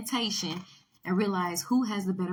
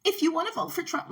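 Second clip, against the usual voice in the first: mock Kamala Harris; 8 semitones higher, 3 dB louder than usual. Mocking Kamala Harris for viewers, in a high hammed-up voice. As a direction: mimic a politician reading her script. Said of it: "like, she just repeats herself".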